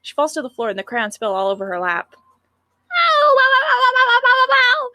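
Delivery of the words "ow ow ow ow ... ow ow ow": high, loud ows in pain; pained whimpering. Acted. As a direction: wail each ow like a hurt child. Sayori hurt her forehead.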